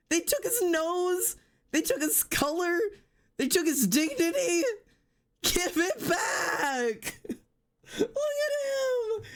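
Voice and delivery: very high, melodramatic lament; hammed-up wail. Real, not acted. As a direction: overwrought high-pitched mourning. Wailing over ruined character design.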